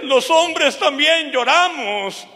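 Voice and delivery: high, slow retold consolation through tears; imitated tearful guard. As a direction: imitate the weeping guard, drawing it out. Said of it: "él empieza a llorar también". (guardia llorando, imitado con voz aguda y lenta)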